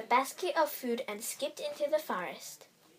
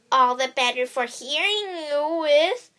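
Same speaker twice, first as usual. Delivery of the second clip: higher, louder grinning wolf voice; toothy grin; 4 semitones higher, 6 dB louder than usual. Acted. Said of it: "with a toothy grin".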